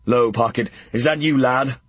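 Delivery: a Welsh knight calling out from the stocks; Welsh accent. Acted. Old Kent calling to Pocket in a light Welsh accent. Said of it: "A Welsh accent".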